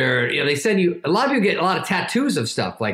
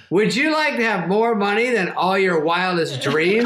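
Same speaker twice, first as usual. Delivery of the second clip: lightly voiced salesman pitch, higher; Norm Macdonald; 4 semitones higher than usual. Comedian dangling riches by text, lightly imitated pitch. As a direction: lure him with a hint of impression. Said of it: "He just goes".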